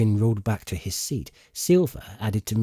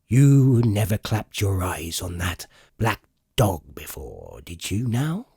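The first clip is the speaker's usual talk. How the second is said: slow, stern interrogation of a sailor; 2 semitones lower than usual. Acted. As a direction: press him hard, stern and slow. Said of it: "said Long John very sternly".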